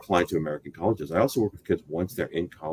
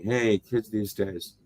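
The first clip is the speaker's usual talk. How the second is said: put-on old man on the lawn; 4 semitones higher, much slower than usual. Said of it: "sound like the old man on the lawn saying".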